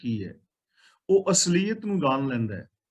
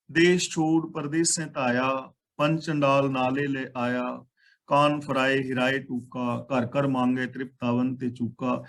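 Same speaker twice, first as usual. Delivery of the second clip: slow, measured recital of the verse; scripture recitation; 3 semitones lower than usual. Acted. Preacher reciting the verse to the congregation in a slow, measured recital. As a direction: lay each line out slowly and evenly.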